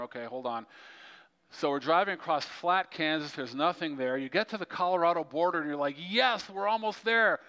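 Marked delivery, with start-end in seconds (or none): 6.0-7.4 higher-pitched, eager mock cheer; mock excitement. Traveler reaching the Colorado border, excited. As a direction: play up the premature relief. Acts out premature joy at border.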